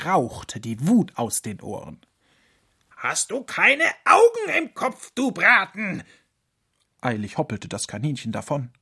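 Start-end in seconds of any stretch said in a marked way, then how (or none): 3.0-6.0 high, loud screeching fox rage; furious fox. Acted. Fox yelling at the rabbit after the crash, furious.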